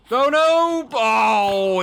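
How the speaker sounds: high startled cry of oh no; surprised yelp. Real, not acted. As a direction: caught off guard, yelping. Boss arrives too early.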